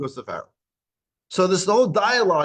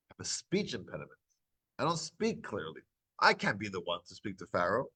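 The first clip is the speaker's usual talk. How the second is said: much softer, lower, shrinking excuse; a hint of a timid stammerer backing away; meek plea; 8 semitones lower, 9 dB quieter than usual. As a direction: mumble it like someone ashamed of his speech. Moshe pleads his speech impediment.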